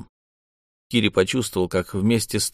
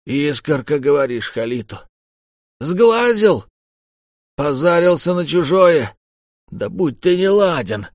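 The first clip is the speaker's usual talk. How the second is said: panicked cursing; 6 semitones higher, 4 dB louder than usual. Acted.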